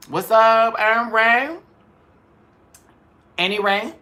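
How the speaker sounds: high, loud shout-out; excited greeting. Real, not acted. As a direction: call out the names brightly. Greeting live chat viewers.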